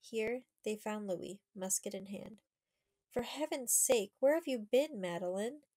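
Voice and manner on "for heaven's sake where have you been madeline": put-on raised, higher voice of a worried boy; louder, urgent boyish question; anxious cry. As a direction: call out in relief and worry. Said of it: "cried the boy".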